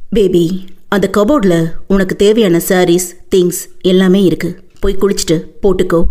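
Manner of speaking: a hint of the doting husband; low, casual male lead; lightly voiced lover. Male lead's lines voiced lower.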